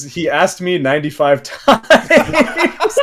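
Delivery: breaking into laughter mid-sentence; slow down and lose it on the last word; cracking up. Real, not acted. Host relays the friend's confession, cracking up.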